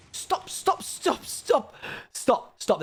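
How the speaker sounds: high panicked stop, stop; panicked yelling. Real, not acted. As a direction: cry out in a panic. Machine triggering, panicked.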